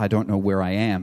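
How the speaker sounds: ordinary talk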